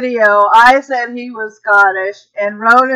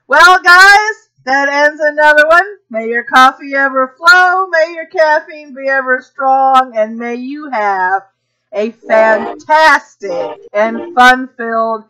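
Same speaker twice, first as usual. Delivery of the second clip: upbeat host sign-off, slowing at the end; show sign-off; 2 semitones higher than usual. Acted. A host closing the morning show, blessing listeners cheerfully. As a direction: close the show, cheery and warm.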